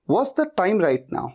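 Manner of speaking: very slow, careful words; slow demo. Shown as a demonstration. Teacher models the question slowly for students. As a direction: say it slowly so learners can copy. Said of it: "ये sentence याद आना चाहिए".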